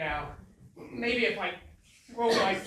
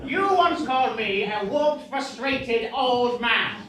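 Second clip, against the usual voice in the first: indignant; 6 dB louder, slower than usual. Acted. Rival recalls an insult.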